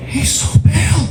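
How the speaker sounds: high, thin comedian's aside voice; high-pitched mock audience comment; Jim Gaffigan. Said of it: "Quote Jim Gaffigan".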